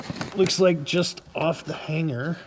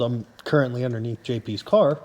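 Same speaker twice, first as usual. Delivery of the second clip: muffled; 3 semitones higher than usual. Real, not acted. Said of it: "sorry if I'm muffled".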